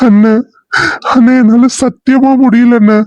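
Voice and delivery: tearful. Acted. Distraught officer confiding in his colleague about the missing girl, tearful. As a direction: confess distress with a touch of crying. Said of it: "ஏன் அழுவுறீங்க?".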